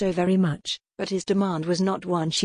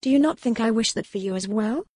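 a touch of fierce retort, higher pitched; 3 semitones higher than usual. Acted. Lady retorting to the pirate captain with mild fierceness. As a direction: snap back with mild fierceness. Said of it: "she replied fiercely".

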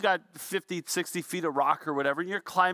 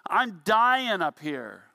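tired yell down; 3 semitones higher than usual. Retold or imitated. Exhausted climber yells down to friends, giving up. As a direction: call down that you're done. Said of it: "so you yell down".

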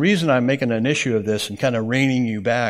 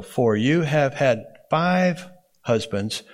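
slow reading with "five" drawn out and set apart; stress on five; slower than usual. Shown as a demonstration. Teacher reads the verse to the class, slow emphasis on "five". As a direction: hold "five" for emphasis before "husbands". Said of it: "putting emphasis or the emphatic position".

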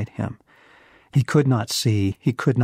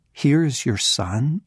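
rising, disbelieving question; incredulous; 4 semitones higher than usual. Shown as a demonstration. Preacher echoes Jesus in disbelief, incredulous. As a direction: ask it as if you can't believe it. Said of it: "you have got to be kidding me".

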